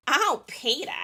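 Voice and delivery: lightly voiced cartoon wife; a hint of a cartoon wife calling her husband; brief, light wife impression; Lois. Shown as a demonstration. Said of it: "So a little bit of Lois".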